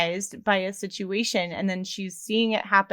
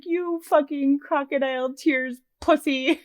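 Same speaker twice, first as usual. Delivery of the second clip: James; 6 semitones higher than usual. Retold or imitated. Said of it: "He's like".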